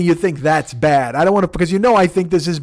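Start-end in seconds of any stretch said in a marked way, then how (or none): 0.0-1.2 slow, drawn-out mock of his warning; mocking echo. Mocking the friend's warning line back at him, slowly. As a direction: drag the words out to mock him. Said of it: "don't give me any".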